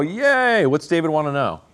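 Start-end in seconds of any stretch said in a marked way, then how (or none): 0.0-0.7 a sudden high, sarcastic little cheer; mock cheer. Preacher mock-cheering the victory for his listeners, high and bright. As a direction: pop it up like cheering a win nobody cares about.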